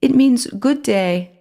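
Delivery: put-on high mouse voice with French accent, slow. A narrator's reading. French mouse explaining to Timothy, French accent. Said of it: "The mouse spoke with a French accent".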